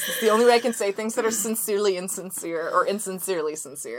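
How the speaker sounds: sincere on the surface, insincere beneath; sincerely insincere voice. Acted. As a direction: fake earnest host voice. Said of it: "saying it in that voice every time".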